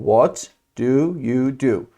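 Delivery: slow, word by word, pausing after "What"; slow model question. Shown as a demonstration. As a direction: spell out the question slowly for learners. Teacher repeats question word by word.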